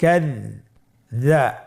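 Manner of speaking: কাযযা stretched very slowly, the doubled য held; drawn-out syllable. Shown as a demonstration. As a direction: hold the doubled sound in কাযযা long. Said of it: "আমার সাথে বলুন".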